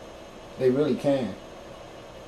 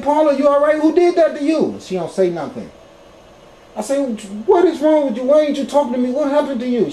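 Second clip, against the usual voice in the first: worried pleading; 9 semitones higher, 3 dB louder than usual. Retold or imitated. Pleading through the bathroom door.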